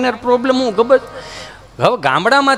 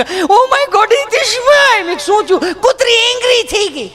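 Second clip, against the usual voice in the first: much higher, shrill panicked city lady; panicked shriek; 12 semitones higher than usual. Retold or imitated. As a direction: squeal in mock terror. Panicked city lady running back. (ગભરાયેલી ભાભીની ઊંચી ચીસ)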